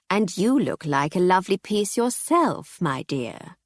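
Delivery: oil it out like a sleazy dealer; oily dealer. Acted. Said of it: "oily antiques dealer".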